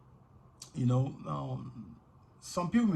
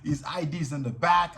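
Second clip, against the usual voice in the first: frightened pleading, raised voice; begging; 3 semitones higher, 4 dB louder than usual. Retold or imitated. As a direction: plead for his life, scared. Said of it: "I was begging".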